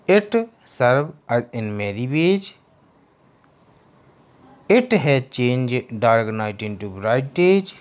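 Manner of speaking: slow, careful word-by-word reading for students; teacher reading an English passage to the class; slow reading aloud. Shown as a demonstration. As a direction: read it slowly so the class can follow. Teacher reads English text aloud.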